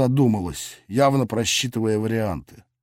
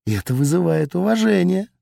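venomous; 6 semitones higher than usual. Acted. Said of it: "ядовито процедила Пельмешка".

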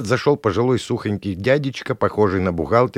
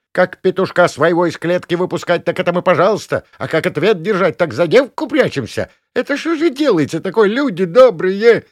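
much higher, loud wailing appeal; outraged old woman; 11 semitones higher, 6 dB louder than usual. Acted. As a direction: lament to the crowd. Gavrilovna appealing to the people. (причитая на публику)

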